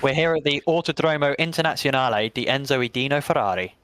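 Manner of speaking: put-on English commentator's proud Italian accent. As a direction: roll out the Italian name with Italian flair. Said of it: "With the Italian accent as well".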